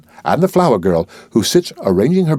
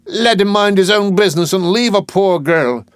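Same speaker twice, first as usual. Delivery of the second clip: put-on flower girl's protest; 10 semitones higher than usual.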